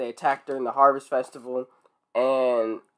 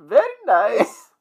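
put-on slow, high, drawn-out French accent; hammed-up slow French "very nice"; mock French accent; 8 semitones higher, slower than usual. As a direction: echo a silly French accent, stretching it out. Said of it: "That's French, right?".

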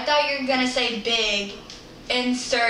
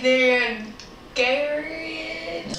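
put-on country accent; slower than usual. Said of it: "That's my country accent".

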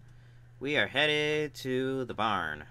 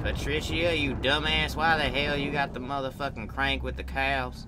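loud, higher, furious shout at Patricia; angry yell; 5 semitones higher, 4 dB louder than usual. Real, not acted. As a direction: yell at her in exasperation. Yelling at game character.

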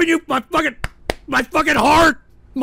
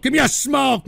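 sudden yell. Real, not acted. Exhausted streamer demands a smoke, shouting. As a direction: bark the demand out. Begging for a cigarette.

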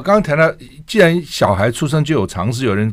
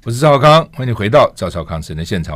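radio host greeting. Real, not acted. Host returns from break.

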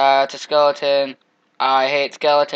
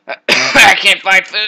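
whiny slow wail; 6 semitones higher, 11 dB louder, much slower than usual. Acted. Starving in game.

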